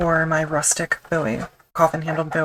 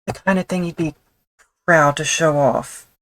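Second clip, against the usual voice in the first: bad Australian accent; 5 dB louder than usual. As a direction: brag it in a mock Australian accent. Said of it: "with a horribly done Australian accent".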